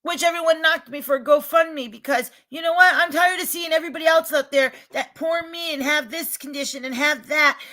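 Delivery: fed-up outburst. Real, not acted. Venting about GoFundMe critics.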